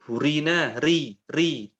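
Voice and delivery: Burina with a local rolled r; Indonesian r. Shown as a demonstration. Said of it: "Itu R-nya kita".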